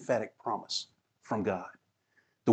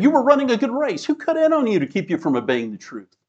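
raised rebuking quote; 11 semitones higher, 6 dB louder than usual. Acted. Quoting Paul's rebuke to Galatians.

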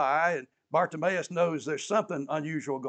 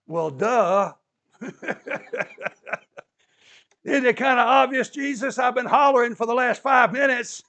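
mock exasperation; 6 semitones higher, 9 dB louder than usual. Preacher voices Bartimaeus sarcastically.

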